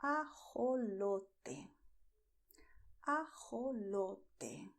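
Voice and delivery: "ajolote" slow, syllable by syllable; pronunciación modelo. Shown as a demonstration. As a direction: say "ajolote" very slowly for learners. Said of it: "let's move to the second word, which is".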